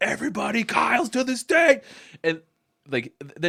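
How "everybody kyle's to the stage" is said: very high, screamed announcement. Retelling how a guy announced people before they cannonballed into the pool, imitating someone screaming. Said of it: "he would scream".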